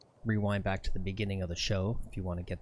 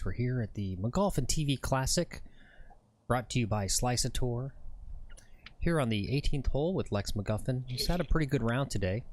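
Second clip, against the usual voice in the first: golf announcer voice. Pretend. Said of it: "let's do some, uh, golf announcer voice".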